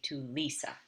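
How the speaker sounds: LISA emphasized as the answer; stress on LISA. Shown as a demonstration. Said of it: "emphasizing that he's giving this present to this specific person".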